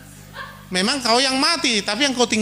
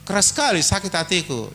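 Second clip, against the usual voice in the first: wife's gentle complaint. Acted. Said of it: "Dia bilang".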